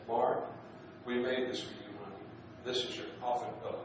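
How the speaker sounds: a hint of a Texas accent. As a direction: say it like a Texas head nurse. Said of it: "in her beautiful Texas accent".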